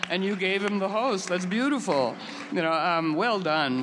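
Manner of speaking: "Hello" thrown high and fast, gushing; delighted praise. Retold or imitated. Telling the woman how beautiful the cop's apology was, delighted and gushing. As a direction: gush with delight at a beautiful tale.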